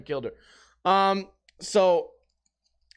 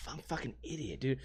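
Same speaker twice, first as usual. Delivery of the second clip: very soft, voiceless aside; self-mocking whisper; 5 semitones lower, 15 dB quieter than usual. Real, not acted. Streamer catching his own silly mistake, whispered self-reproach. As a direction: whisper it to yourself, sheepishly.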